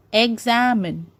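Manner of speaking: "examine" slowly, am drawn out; stress on middle syllable. Shown as a demonstration. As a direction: stretch the am in "examine". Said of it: "am is stressed".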